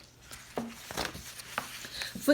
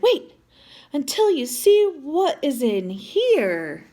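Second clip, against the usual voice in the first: teasing build-up; 3 semitones higher, 3 dB louder than usual. Acted. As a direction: tease the surprise. Build-up before the reveal.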